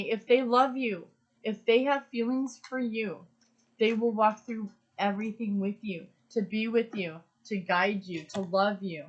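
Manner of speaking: emotional. Real, not acted. Tarot reader reassuring viewers, voice full of emotion. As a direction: carry the swell of feeling through. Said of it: "and I'm getting emotional".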